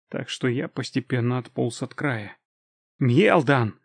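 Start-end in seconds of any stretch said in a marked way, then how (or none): 3.0-3.8 заорал. Acted. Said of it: "заорал я".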